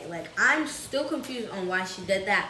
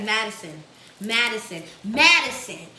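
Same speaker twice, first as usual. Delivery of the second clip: name called louder each time; calling, building louder; 6 dB louder than usual. Retold or imitated. Grandma calling child hiding under covers, growing louder. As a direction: call the name, rising to a loud call. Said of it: "she gets a little bit deeper".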